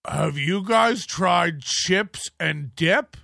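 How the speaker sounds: slow, drawn-out smug question; mocking a smug tweet; mock smug quote. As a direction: read it like a proud discovery. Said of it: "Chad tweets out".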